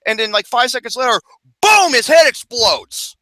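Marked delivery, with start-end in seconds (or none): 1.6-3.2 slow, loud boom. Real, not acted. Gory climax of his story.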